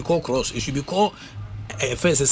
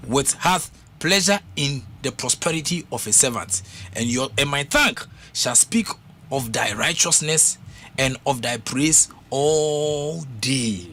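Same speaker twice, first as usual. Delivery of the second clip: slow, solemn psalm reading; scripture reading; slower than usual. Acted. Preacher reading a psalm to the congregation, slow and solemn. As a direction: read the psalm slowly and solemnly.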